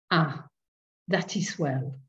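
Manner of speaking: satisfied curé. A narrator's reading. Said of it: "with satisfaction".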